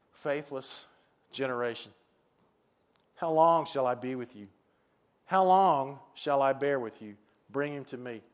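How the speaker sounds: calm, solemn reading with weighty pauses; measured and grave, pausing between phrases; Jesus, calm and solemn. Acted. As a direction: read it solemnly, unhurried, without exclamation. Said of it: "Jesus said this in a calm, solemn voice".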